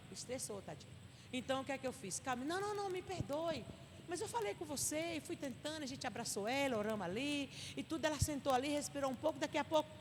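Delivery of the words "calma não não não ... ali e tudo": soothing apology. Retold or imitated. Acting out apology to upset sister.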